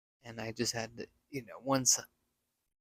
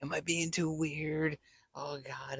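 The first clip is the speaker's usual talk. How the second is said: hushed self-doubt; 2 semitones higher than usual. Retold or imitated. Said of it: "I'm like".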